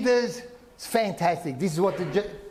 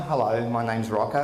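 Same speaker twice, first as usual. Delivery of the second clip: lightly voiced Italian guy; 9 semitones lower than usual. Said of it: "Can you just see him ... introducing himself".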